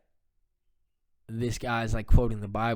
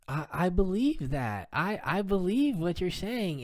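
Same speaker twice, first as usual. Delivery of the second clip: quoting dad's wife; 7 semitones higher than usual. Retold or imitated. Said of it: "And she was like".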